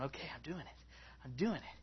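very soft self-encouragement; hushed, tentative mock nerves; a little shaky. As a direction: quietly talk yourself through it. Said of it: "He's a little shaky".

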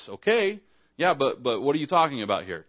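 hammed-up bewildered questioning; puzzled protest. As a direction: act baffled by an unclear order. Acting a priest confused by the command.

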